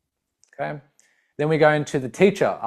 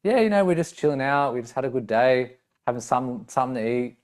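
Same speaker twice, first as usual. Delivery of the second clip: chill conversational. Shown as a demonstration. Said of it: "it's conversational, it's chill".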